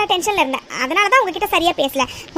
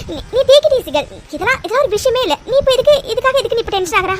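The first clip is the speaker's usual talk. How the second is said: higher-pitched pep talk to herself; agitated self-reassurance; 4 semitones higher than usual. Acted. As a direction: talk yourself down, still wound up. Talking herself out of tension. (பதற்றத்தோடு தன்னைத் தேற்றும் குரல்)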